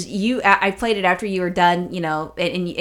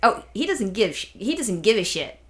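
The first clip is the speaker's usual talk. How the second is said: honey badger narrator; 3 semitones higher than usual. Quoting the viral video.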